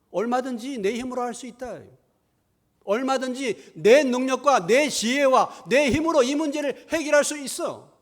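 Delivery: loud, high-pitched overconfident boast; boastful self-reliance. Acted. Preacher voices people who think they need no God, boastful and loud. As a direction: boast forcefully, drawing out the claims.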